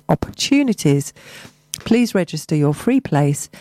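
measured local radio announcement; community bulletin delivery; event listing read. Acted. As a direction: read the notice out evenly, with pauses between items.

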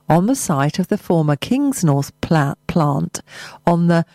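measured local radio news read; news bulletin delivery; press release read. Acted.

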